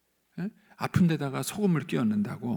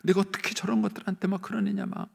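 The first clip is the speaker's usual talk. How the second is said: higher, worked-up mock grievance; acted resentment; 6 semitones higher than usual. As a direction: rant like someone wronged and rattled. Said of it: "막 휘둘리면서". (억울해서 분을 터뜨리는 흉내)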